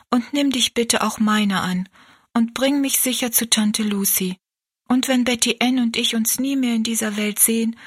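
a lightly voiced young girl praying earnestly; girl's prayer. Kneeling girl prays to the Good Shepherd, earnest. Rosalie prays before leaving.

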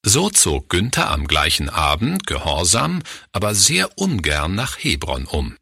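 ordinary delivery, nothing marked

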